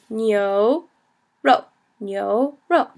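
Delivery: slow "nyoro", pausing between syllables; rising nyo, falling ro in "nyoro"; teacher spelling out "nyoro" by ear; second and fourth tone. Shown as a demonstration. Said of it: "second tone, fourth tone".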